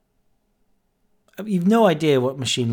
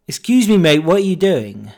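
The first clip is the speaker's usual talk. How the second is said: a sudden, much higher, much louder call across the shop; manager's shout; 5 semitones higher, 8 dB louder than usual. Retold or imitated. Shop manager calls across the betting shop, loud challenging shout. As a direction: bark it across the room to catch him out. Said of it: "the manager shouted at me".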